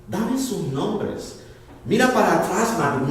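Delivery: very slow, each word weighed; slow demand. Acted. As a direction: drag it out like a stern challenge. God challenges the pastor.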